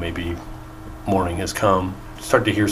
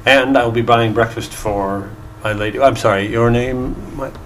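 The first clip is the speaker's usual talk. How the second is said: flattering gnome bard; 3 semitones higher, 3 dB louder than usual. Acted.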